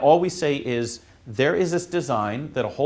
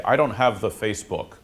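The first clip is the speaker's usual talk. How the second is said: put-on old man voice. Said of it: "I sound like an old man when I say".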